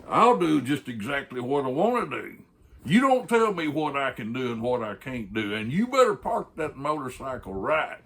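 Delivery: acted indignant outburst; angry boss. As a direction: pull rank, loud and high. Boss angrily answers biker back.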